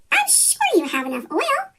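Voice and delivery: high, gentle reassurance; reassuring. A narrator's reading. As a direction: soothe the worried engines. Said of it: "Thomas reassured them".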